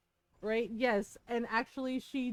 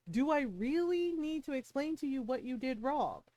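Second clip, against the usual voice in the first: patient condescending cop, a bit softer; talking down as to a child; 3 dB quieter than usual. Retold or imitated. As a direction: explain it like she's five. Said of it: "the way he asked her like she was five".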